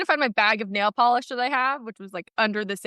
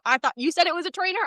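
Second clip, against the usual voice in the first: higher and fast, defensive rising tone; mock husband excuse; 6 semitones higher, faster than usual. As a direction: whine it innocently. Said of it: "He says".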